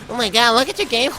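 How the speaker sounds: high, fast mocking gasp; mocking commenter. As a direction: squeal it like a scoffing hater. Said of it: "those people that".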